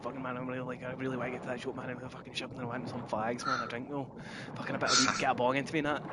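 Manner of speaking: quick, unenunciated everyday rattle; unslowed natural speech. Shown as a demonstration. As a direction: run the words together, as you normally talk. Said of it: "Otherwise I'll be coming out like this".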